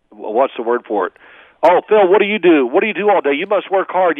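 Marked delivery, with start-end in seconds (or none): 1.6-4.2 curious acquaintance. Retold or imitated. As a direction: ask like an impressed outsider. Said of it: "I tell people this all the time".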